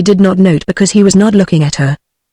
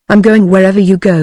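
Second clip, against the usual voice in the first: steady, stubborn insistence, a touch firmer; dogged. A narrator's reading. Van Horst refusing to leave La, doggedly insisting. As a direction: dig in and refuse to be left behind. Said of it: "he replied doggedly".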